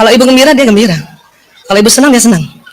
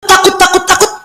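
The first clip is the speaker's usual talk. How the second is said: higher, anxious repetition; acted fear; 5 semitones higher than usual. Mother fretting over her child, mock fearful. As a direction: worry in a mock fretful loop.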